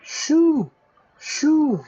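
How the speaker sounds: high, loud shoo in a put-on voice; hammed-up shout to chase a drunk away. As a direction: shoo someone off loudly. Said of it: "we say, yeah?".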